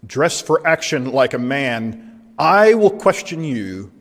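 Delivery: stern, drawn-out challenge from God; slow, deliberate divine rebuke, lightly acted. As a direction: confront him as God, taking your time. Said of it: "Very different tone from chapter one".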